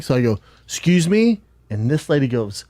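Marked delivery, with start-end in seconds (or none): 0.6-1.4 retold puzzled "excuse me"; puzzled query. Cyclist calls back to yelling riders, puzzled.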